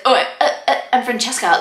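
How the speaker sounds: a hint of nervous stammering; mock flustered, tripping on the uhs; lightly voiced awkward bride; flustered Francesca. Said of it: "Francesca was like".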